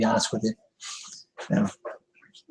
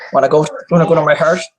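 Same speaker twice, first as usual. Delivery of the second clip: eager pet invite; 3 semitones higher, 5 dB louder, faster than usual. Real, not acted. Inviting cat, louder.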